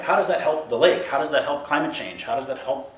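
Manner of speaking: insistent repeated demand, ending high; frustrated questioning. Acted. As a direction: hammer the questions, building to exasperation. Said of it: "that's frustrating to our linear minds".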